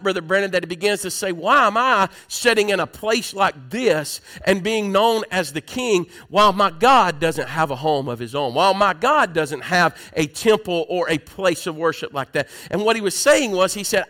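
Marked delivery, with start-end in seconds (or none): 1.3-12.5 mildly worked-up, emphatic retold quote; preacher acting out stirred-up conviction. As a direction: voice a king getting stirred in his heart, a touch raised. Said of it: "he gets so stirred up".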